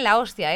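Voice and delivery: "la hostia" with the first O stressed. Shown as a demonstration. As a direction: lean on the O opening "hostia". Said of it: "con acento en la primera O".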